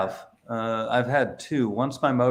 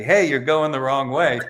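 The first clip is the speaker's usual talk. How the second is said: imitated passenger yelling, higher and louder; mock yell, pitched up; retold yell; 6 semitones higher, 6 dB louder than usual. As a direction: call it out like an indignant passenger. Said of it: "she yells at me".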